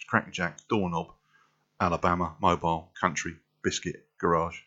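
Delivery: plain-spoken North London vowels; North London accent. Shown as a demonstration. Trying the word list in North London accent. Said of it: "word list in a North London accent".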